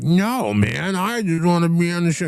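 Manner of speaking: very high mock drunk voice; put-on high-pitched protest; pleading drunk. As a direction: imitate a drunk begging to be on air. Drunk man retold, pleading.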